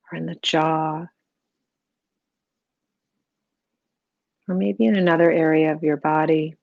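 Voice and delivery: calm, even meditation voice with long pauses; guided meditation. Real, not acted. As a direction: gently guide the listener into stillness, unhurried.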